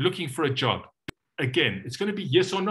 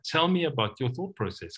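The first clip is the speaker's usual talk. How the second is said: softer. Shown as a demonstration. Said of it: "lands a bit softer".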